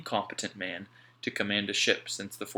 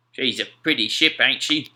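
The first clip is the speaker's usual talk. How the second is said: louder, admiring sailor voice; Mac, admiring sailor; 4 semitones higher, 10 dB louder than usual. A narrator's reading. Mac admiring the Wasp to Alf, loud sailor voice. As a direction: admire the ship aloud.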